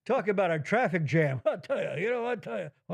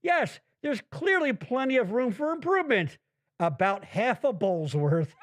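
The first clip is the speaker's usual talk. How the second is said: sarcastic reply; 2 semitones higher than usual. Retold or imitated. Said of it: "So I wrote".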